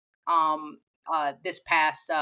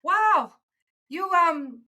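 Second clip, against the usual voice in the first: friend from New Zealand; 9 semitones higher than usual. Retold or imitated. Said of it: "and she had said".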